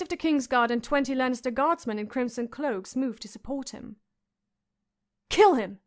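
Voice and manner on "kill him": louder shrieked order; screamed. A narrator's reading. Boy king orders the killing, screaming. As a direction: scream it down from the throne. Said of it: "the boy king screamed".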